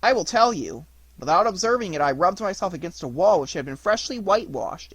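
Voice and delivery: lively puppet making an excuse; puppet explaining. A narrator's reading.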